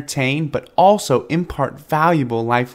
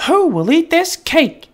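very high hen voice; hen asking; 4 dB louder than usual. A narrator's reading. The hen testing the lazy animals, high voice. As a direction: offer the cake with a knowing lift. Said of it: "asked the little red hen".

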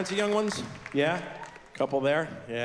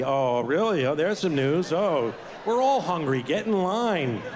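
dry, slowing mock sarcasm; sarcastic reply; slower than usual. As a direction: drag it out like a tired dad. Dad answering needy daughter.

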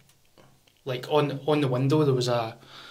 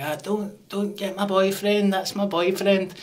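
a raised pleading woman's voice, slowly; higher mock woman; 6 semitones higher, slower than usual. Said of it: "She's like".

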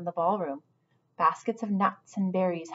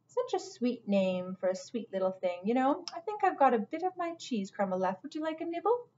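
soft, sweetly coaxing cook; cooing cook; 4 semitones higher, 5 dB quieter than usual. Acted. Cook offering the mouse cheese, soft and coaxing. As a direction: coax her kindly with a treat.

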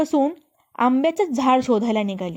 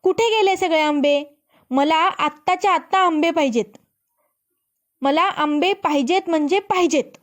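yelling; 5 semitones higher than usual. Acted. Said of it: "पाय आपटत ओरडायला लागली".

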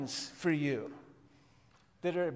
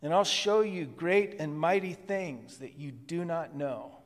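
God calling out; 3 dB louder than usual. Pretend. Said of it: "And so God says".

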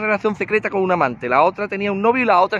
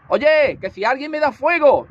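calling out again; 5 semitones higher, slower than usual. Acted. Insiste pidiendo fuego en voz alta.

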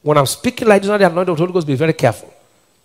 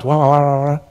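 mock babble; 4 semitones lower than usual. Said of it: "open their mouth".

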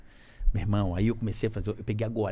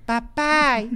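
a high, loud hail; a loud, high name call; 12 semitones higher, 5 dB louder than usual. Retold or imitated. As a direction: shout the name across the party. Calling the other guard by name.

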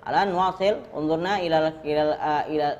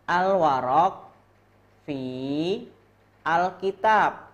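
clear model reading; 4 semitones higher, slower than usual. Shown as a demonstration. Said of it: "Cara bacanya gini".

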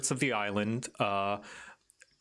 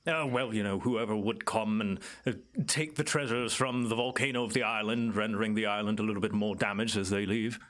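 evasive island native; faster than usual. Acted. Island native explains what unseemly visitors do, lightly in character, musing. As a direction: hedge politely as the island guide. Game master plays Clyde.

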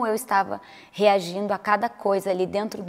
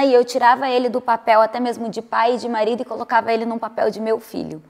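normal talking voice

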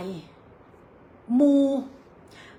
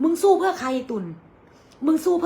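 angry rebuke; 5 semitones higher, 4 dB louder than usual. Real, not acted. Scolding rival in rant.

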